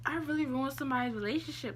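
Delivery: high-pitched guilty realization; retold self-reproach. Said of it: "I was saying that to myself in my head".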